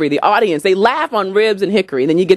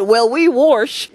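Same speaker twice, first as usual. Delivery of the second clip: dry deadpan; 4 semitones higher, much slower than usual. Retold or imitated. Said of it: "I said".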